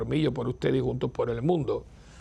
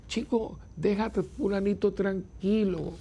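mock scolding; 5 semitones higher, slower than usual. Scolding a complainer, voiced advice.

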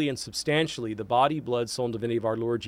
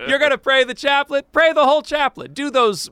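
put-on high, loud comic Portuguese accent; 12 semitones higher, 6 dB louder than usual. Priest repeating his rule on the chaplet for laughs, mock Portuguese accent. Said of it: "That's my Portuguese accent".

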